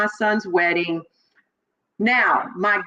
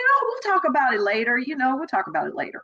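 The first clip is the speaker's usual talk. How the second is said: brushing it off with a smile; 4 semitones higher, much faster than usual. Retold or imitated. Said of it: "trying to blow it off with smiling".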